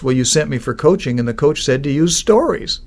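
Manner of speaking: mildly whining mock complaint; whiny voice. Executive blaming the coach to the CEO, mildly whiny. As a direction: imitate a put-upon, whiny excuse. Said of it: "in a kind of a whiny voice".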